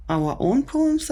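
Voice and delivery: put-on high, keen kid's question; lightly voiced eager pupil. A narrator's reading. Melvin asking the teacher about poems, high and keen. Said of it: "asked Melvin Sneedly".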